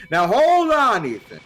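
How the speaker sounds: a high, pressing teacher voice; high incredulous teacher. Retold or imitated. Teacher questioning the student, high incredulous voice. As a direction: question him like a baffled teacher. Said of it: "And the teacher goes".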